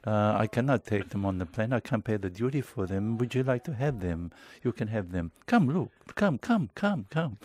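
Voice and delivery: put-on light Italian accent, eager and coaxing. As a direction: beckon like a pushy Italian salesman. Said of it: "am I allowed to do an Italian accent?".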